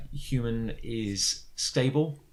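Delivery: slow, lightly mechanical readout; little mechanical voice. Acted. Medical system reports on patient, lightly mechanical. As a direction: report it slowly like a medical machine. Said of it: "a little mechanical voice starts reading out".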